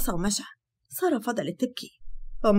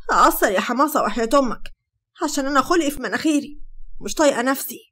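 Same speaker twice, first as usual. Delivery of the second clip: angry; 3 semitones higher, 3 dB louder than usual. Acted. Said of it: "بصت له بغضب وقالت".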